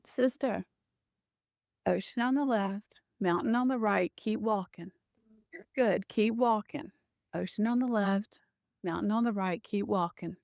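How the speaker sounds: lightly voiced Hawaiian accent. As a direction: guide someone along in a slight Hawaiian lilt. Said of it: "this beautiful voice and in this very Hawaiian accent".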